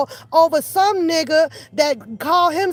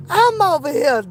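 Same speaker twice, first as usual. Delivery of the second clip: ordinary talk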